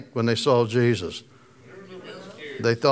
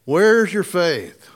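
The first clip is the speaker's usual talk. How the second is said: "Where's your faith?" said slowly, each word stretched; a gentle, slow rebuke from Jesus; slow, drawn-out question; 3 semitones higher, much slower than usual. Retold or imitated. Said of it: "What's he say?".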